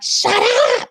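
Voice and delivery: hoarse, strained mock scream; mock scream squeezed through the throat; retold scream. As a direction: imitate yourself screaming at the kids. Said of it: "screaming at the top of my lungs".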